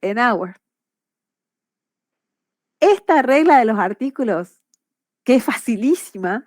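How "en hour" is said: "En hour" linked, with no H sound; "hour" with the H dropped, running on from "En"; silent H. Shown as a demonstration. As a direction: say "hour" starting straight on the vowel. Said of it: "la H no la pronuncio".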